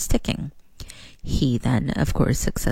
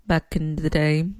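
light British accent attempt; weak British accent. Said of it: "that was my attempt to a British accent".

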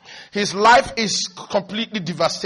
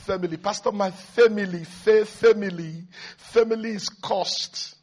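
mock lament. Preacher imitating people complaining to the pastor, mock lament. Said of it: "there's a way some people now say".

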